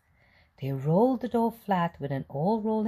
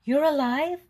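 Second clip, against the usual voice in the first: put-on surprised old man; 10 semitones higher than usual. A narrator's reading. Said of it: "asked the little old man".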